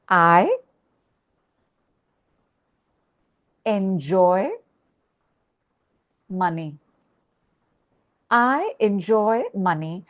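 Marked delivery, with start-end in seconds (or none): 0.1-6.8 each word set apart with long pauses; slow, deliberate word by word; slow, spaced affirmation. Shown as a demonstration. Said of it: "I want you to say".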